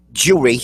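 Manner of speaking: "Jewelry" in two syllables, "joo-ree"; wrong jewelry. Shown as a demonstration. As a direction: drop the L from JEWELRY. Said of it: "not jewelry".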